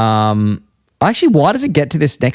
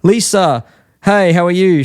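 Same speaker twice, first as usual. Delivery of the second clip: higher-pitched acted-out hello; retold eager greeting; 5 semitones higher, slower than usual. Retelling Lisa meeting her teacher, mock eager greeting. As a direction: greet them as in a cartoon retelling. Acting out a greeting between characters.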